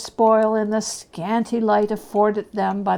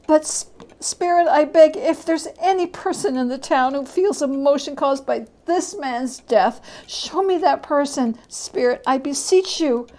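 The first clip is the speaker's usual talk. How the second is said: higher, earnest begging; an old man beseeching the phantom; higher beseeching plea; pleading Scrooge; 4 semitones higher than usual. Acted. Scrooge begs the spirit.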